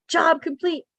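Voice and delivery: high, drawn-out "done at last" call; mock victorious; acted triumph. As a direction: announce it like a game victory. Voices relief at finishing game task.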